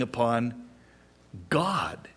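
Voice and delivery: a hushed whisper on the word. Real, not acted. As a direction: drop to a breathy hush for emphasis. Hushed climax of the point.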